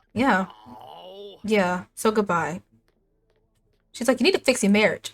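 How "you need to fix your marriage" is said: mild acted jab at dad; understated teen back-talk, near usual voice; acted retort. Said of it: "She is yelling at him".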